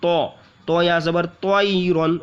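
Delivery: slow, spelled-out तयरन; तयरन with tanween. Shown as a demonstration. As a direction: end तयरन on a clear -न. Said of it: "रॉ के ऊपर दो ज़बर है".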